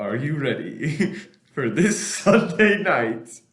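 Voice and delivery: slow, drawn out, laughing; prank call laughing. Acted. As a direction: stretch it out while giggling. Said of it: "prank call question to Dennis".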